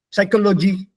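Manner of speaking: Psychology with even weight and a long final gee; Indian mispronunciation. Shown as a demonstration. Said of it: "We mispronounce many words".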